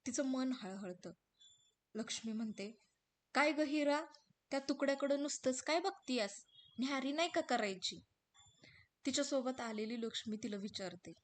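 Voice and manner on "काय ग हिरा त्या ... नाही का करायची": lightly voiced curious friend; village woman friend, teasing. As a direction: nudge her friend to eat. मैत्रीण हिराला विचारते. (हिराला विचारणारी गावरान मैत्रीण, हलक्या आवाजात)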